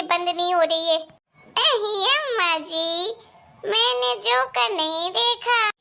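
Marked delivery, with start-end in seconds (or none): 1.6-5.7 slow giggly reply through laughter; giggling. Acted. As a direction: giggle through the words like a naughty child. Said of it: "तू ऐसे चुड़ैलों जैसी हंसी क्यों निकाल रही है".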